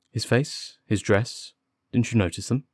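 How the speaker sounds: brisk, pressing questions; mildly impatient. Acted. Detective cutting into the constable's rambling account, mildly impatient. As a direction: break in with a touch of impatience. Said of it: "Holmes broke in impatiently".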